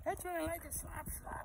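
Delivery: very high, soft squeak of a tiny voice; squeaky horse voice. Acted. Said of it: "he says".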